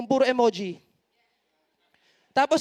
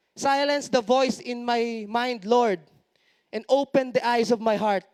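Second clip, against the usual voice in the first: prayer declaration; slower than usual. Shown as a demonstration. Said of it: "You need to declare those things".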